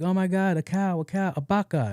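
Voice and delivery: high-pitched mock kid excitement; imitating excited kids. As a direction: play a child pointing out a surprise. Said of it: "the kids are like".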